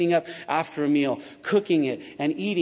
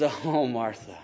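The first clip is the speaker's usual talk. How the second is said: lower, gentle mock sigh of address; Jesus; 5 semitones lower, 3 dB quieter, slower than usual. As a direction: soothe her softly, acting the patient teacher. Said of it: "And Jesus says".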